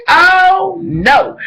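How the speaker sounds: high, crying mock wail; mock panic. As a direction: wail it like a melodrama. Mock-voicing panicking character.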